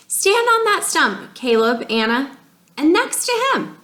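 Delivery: lightly voiced photographer; photographer calling out. Photographer calling the family to pose, high call.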